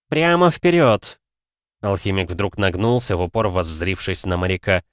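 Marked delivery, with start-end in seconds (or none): 0.1-1.2 firm declaration. Acted. Alchemist declares firmly.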